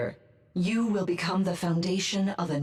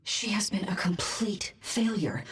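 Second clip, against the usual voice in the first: cold murmur. Acted. Cold verdict on attendant.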